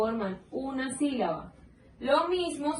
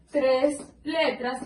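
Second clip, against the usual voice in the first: slow emphasis; much slower than usual. Shown as a demonstration.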